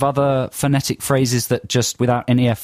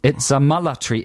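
attempted South African vowels on military; South African accent, military as "mullatry"; phonetic South African accent. Shown as a demonstration. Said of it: "sound perfectly South African".

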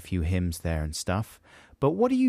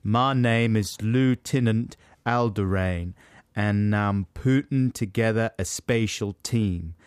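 Tennessee accent; slower than usual. Shown as a demonstration. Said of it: "That's Tennessee, that accent".

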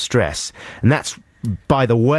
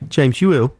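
higher, punning enquiry after James; mock concerned question; 5 semitones higher than usual. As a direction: ask the name as if asking after health. Acted punning exchange with James Yuill.

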